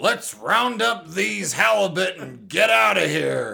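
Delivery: rough sailor voice, loud and high. Voicing a side character in a scene: smart scientist sailor voice. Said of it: "like a smart scientist sailor".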